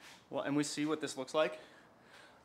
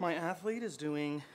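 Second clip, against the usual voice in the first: softer, slow mock coach recording; quiet coach imitation; 5 dB quieter, slower than usual. Coach recording without distracting athlete, quiet imitation. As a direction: imitate a coach speaking discreetly. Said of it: "They're, like, quiet".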